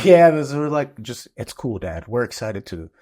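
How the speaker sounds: laughing through a quoted line. Real, not acted. Dad quoting his kids through laughter, laughing. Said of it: "laughing while quoting kids".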